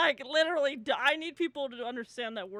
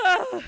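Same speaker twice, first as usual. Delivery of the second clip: big sigh; 7 semitones higher, 12 dB louder than usual. Retold or imitated. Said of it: "like the big sigh".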